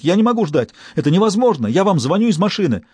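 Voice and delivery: can't wait, spill it all out in panic; frantic panic. Acted. Stas on the phone, frantic and refusing to wait.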